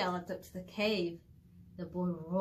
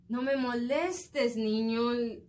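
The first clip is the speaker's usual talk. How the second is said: shouting; 2 semitones higher, 4 dB louder, slower than usual. Acted. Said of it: "le gritó".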